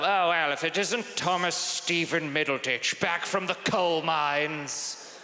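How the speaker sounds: a lightly voiced stern Dickensian headmaster; old headmaster. Headmaster greeting the boy back from the mines, lightly stern. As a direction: sneer like a Victorian schoolmaster. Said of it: "old, like, headmasters".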